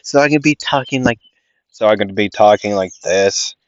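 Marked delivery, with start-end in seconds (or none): 1.7-3.5 slightly lowered demo voice; switched voice. Shown as a demonstration. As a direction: lightly put on another voice to show the switch. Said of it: "switch my vocal cords around".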